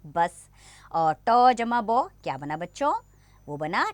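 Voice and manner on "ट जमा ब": slow, letter by letter, loud and clear; slow spelling out. Shown as a demonstration. Teacher spells out letters slowly for young pupils. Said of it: "हम उच्चारण करेंगे".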